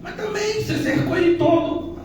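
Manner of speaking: lightly voiced Satan, high and complaining; a hint of a sulky devil grumbling to God; mock whiny Satan. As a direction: whine it like the accuser. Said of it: "a entonação do mal ali é de reclamação".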